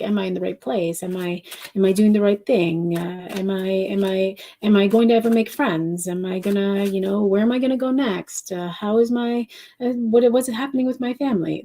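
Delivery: a light imitation of Paola's accent, rising at the end. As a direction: slip into Paola's accent while voicing her worries. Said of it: "I took on your accent".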